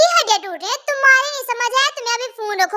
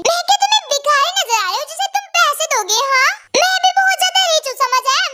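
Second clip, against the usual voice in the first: indignant; 6 semitones higher than usual. Acted. Girl indignantly boasts she is rich.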